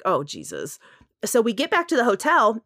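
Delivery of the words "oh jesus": much lower, soft weary groan of a phrase; exasperated mutter. Retold or imitated. Retelling her reaction to a pushy pilot, low exasperated. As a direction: sink into quiet exasperation. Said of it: "And I'm just like".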